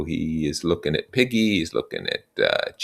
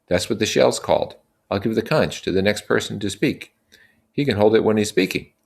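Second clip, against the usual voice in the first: put-on raised, earnest young leader; Ralph addressing the boys; 6 semitones higher than usual. Ralph explaining their situation to the assembly, earnest and raised. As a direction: lay out the facts to the group.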